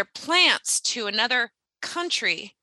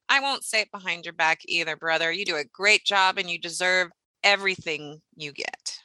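lightly voiced kind boss, lower; supportive supervisor; 4 semitones lower, faster than usual. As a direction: play the fair boss, quick and lower. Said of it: "that's how a supervisor is supposed to talk".

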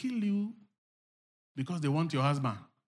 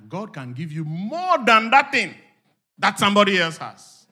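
building from raised voice to high shout; full-force preaching; 8 semitones higher, 19 dB louder than usual. Real, not acted. Preacher promising the congregation more from God, rising to a shout. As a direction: climb to a huge shouted promise.

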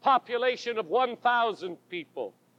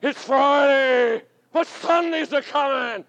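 shouted. Retold or imitated. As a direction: call it across the church. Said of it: "he shouted it for an hour".

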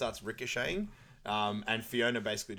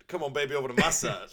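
mock sleepy Donkey; 5 semitones higher, 7 dB louder, faster than usual. Acting Donkey's horny dream.

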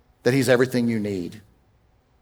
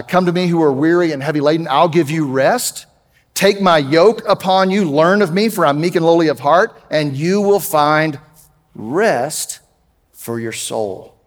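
proclaimed scripture; 2 semitones higher than usual. Acted. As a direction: call the weary in, then let it settle. Reads Matthew 11 aloud.

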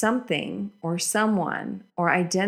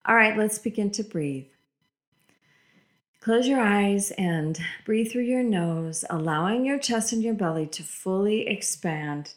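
guided meditation. Acted. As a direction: lead them gently into breathing. Leads a guided breathing meditation.

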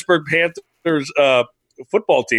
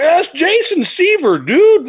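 very high, loud excited exclamation; retold starstruck shout; 5 dB louder, slower than usual. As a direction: blurt it out, thrilled by a celebrity. Retold starstruck recognition of actor.

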